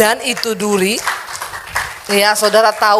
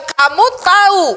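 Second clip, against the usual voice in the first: higher, louder, slow and drawn out; exasperated wife; 8 semitones higher, 4 dB louder than usual. Retold or imitated. Sarah reproaching her husband Abraham, exasperated drawn-out complaint. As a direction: voice a fed-up old wife. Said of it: "Jadi dia bilang".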